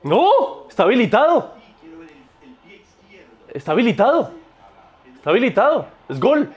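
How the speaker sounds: high, eager protest; excited insisting. Real, not acted. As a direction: keep insisting it's onside. Insisting goal is onside.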